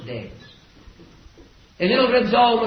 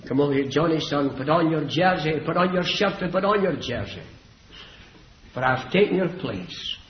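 gentle reassurance. Acted. Boy gently comforts the spared child.

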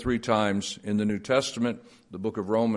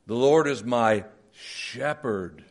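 slow reading with Lord emphasized; stress on Lord; slower than usual. Shown as a demonstration. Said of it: "It works well in verses in the Psalms".

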